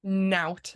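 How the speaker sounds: "Nout" drawn out as one clear syllable with a final t; pronunciation demo. Shown as a demonstration. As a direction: teach "Nout" slowly, crisp n at the start. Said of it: "as in, like, N O W T".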